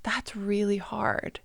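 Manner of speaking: slow, hushed whisper; sit with their pain, whispering slowly; gentle whispered sympathy with long pauses; Sadness. Acted. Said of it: "Sadness sits down next to him and goes".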